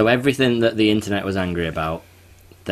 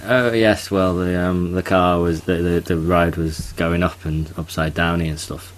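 mock Cockney; slower than usual. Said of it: "he's speaking in his Cockney accent".

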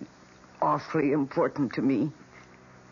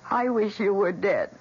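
cold wish; 3 semitones higher, 4 dB louder than usual. Retold or imitated. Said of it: "And then I said".

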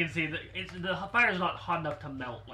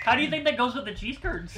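put-on teasing Midwestern accent, higher pitched; mock Fargo accent; 4 semitones higher than usual. Player teasing the DM about the accent, mock Fargo accent. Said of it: "from Fargo all of a sudden".

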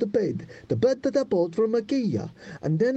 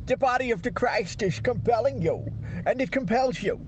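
careful second go at a Swedish priest; Swedish accent attempt. Friend retrying the Exorcist line, Swedish accent. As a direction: do the Swedish priest again, sure you've got it. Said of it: "I think I've got it".

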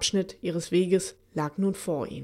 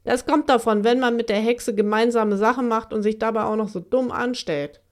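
scornful; 3 semitones higher, 3 dB louder than usual. Acted. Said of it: "Malvine schnaubte nur".

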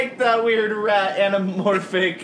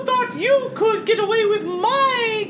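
pirate captain voice; 13 semitones higher than usual. Acted. Pirate captain taunts the heroes.

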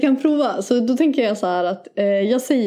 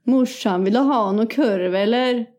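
playful Värmland dialect impression; Värmland accent. Echoing the offer of sausage to mum, Värmland accent. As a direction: imitate a Värmland local. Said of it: "Det är lite värmländska".

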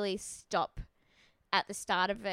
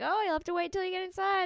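much higher put-on teasing voice; imitated coy contestant; 9 semitones higher than usual. Contestant withholding the translation from bachelor, coy imitation. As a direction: mimic her keeping him guessing.

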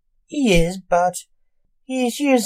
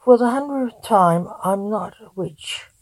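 moaning. Acted. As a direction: moan it, fed up after saying it a hundred times. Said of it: "moaned Blake Alexander".

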